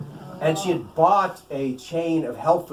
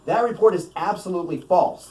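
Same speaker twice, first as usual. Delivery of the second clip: emphatic; 3 semitones higher than usual. Acted. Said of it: "the Speaker said emphatically".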